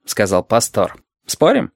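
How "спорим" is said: bright, higher-pitched playful challenge; young inspector's cheerful tone. A narrator's reading. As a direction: toss it out merrily, pitched up. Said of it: "Голос юного инспектора звучал весело".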